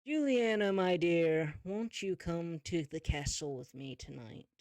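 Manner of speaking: oily villain invitation, loud opening; a hint of a smooth villain king. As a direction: sweet-talk her like a scheming king. Wolf King invites Juliana.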